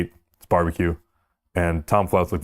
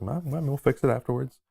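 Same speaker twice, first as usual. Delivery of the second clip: calm; 7 semitones higher, 5 dB quieter than usual. Retold or imitated. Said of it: "just calm as can be".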